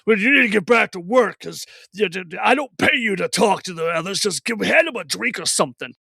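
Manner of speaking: grumbling boss, only lightly put on; a hint of an impatient owner ordering staff about; lightly voiced bar owner. Owner sending waitress back to work, lightly acted boss. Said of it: "the owner was, you know, fiddling with the glass".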